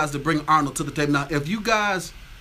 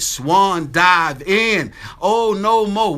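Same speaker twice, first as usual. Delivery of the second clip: loud, slow and drawn out, mock outrage; mock shout; 4 semitones higher, 7 dB louder, much slower than usual. Host mock-shouting a viewer's comment to the live chat, hammed-up and loud. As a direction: belt out the comment like a hammed-up protest.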